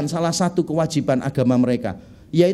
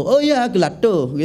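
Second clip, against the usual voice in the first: put-on Balinese accent. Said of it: "memang orang Bali keluarnya begitu".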